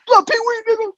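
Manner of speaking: high-pitched mock calling out; imitated call. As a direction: imitate a friend calling from a car window. Voices friend calling out window.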